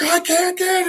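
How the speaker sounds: very high-pitched acted frustration; mock desperate cry, held back in volume; angry, pained. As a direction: imitate a kid losing it. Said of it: "he's also getting angry".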